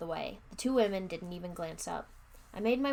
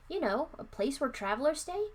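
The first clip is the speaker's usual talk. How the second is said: higher, mildly impatient explaining; 6 semitones higher than usual. A narrator's reading. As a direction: spell it out with some impatience. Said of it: "I replied impatiently".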